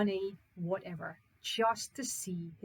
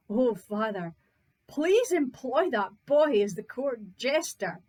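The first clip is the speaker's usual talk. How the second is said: overjoyed daughter; 4 dB louder than usual. Acted.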